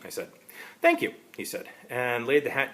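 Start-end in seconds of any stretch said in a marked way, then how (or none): 0.8-1.1 prim thanks. Acted. Time traveler's stiff thanks.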